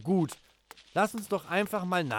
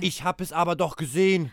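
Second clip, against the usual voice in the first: insisting; 5 dB louder, faster than usual. Acted. Children quarrel loudly.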